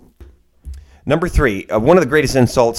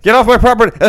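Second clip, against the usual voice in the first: high-pitched mock yelling; retold yell; 10 semitones higher, 3 dB louder than usual. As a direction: imitate someone yelling at a trespasser. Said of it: "yelling on this, this pretentious rich guy".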